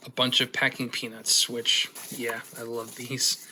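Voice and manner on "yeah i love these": understated, dry sarcasm; sarcastic. Real, not acted. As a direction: say it deadpan, feigning fondness. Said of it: "That's sarcastic".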